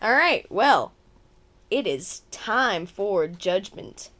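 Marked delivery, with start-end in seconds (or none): 1.7-4.1 dramatic announcer. Acted.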